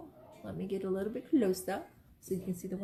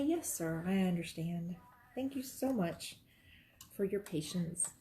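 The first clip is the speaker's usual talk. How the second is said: customer service phone voice; 4 dB quieter, slower than usual. Shown as a demonstration. Speaker demos the voice used with customers, softly polite. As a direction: sound sweetly polite to a caller. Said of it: "the phone voice".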